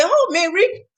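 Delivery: proud offer. Pretend. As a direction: show off the gift with pride. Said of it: "You will be proud and hold it and say".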